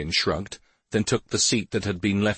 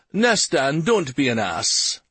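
snarling; 6 semitones higher, 3 dB louder, slower than usual. A narrator's reading. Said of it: "he snarled".

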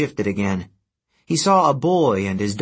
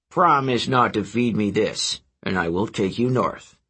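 whale voice. Acted. Whale bargains.

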